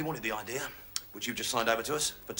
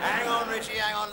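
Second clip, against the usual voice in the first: high, raised-voice interruption; indignant protest; 8 semitones higher, 4 dB louder than usual. Acted. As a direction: cut in indignantly, pitched well up.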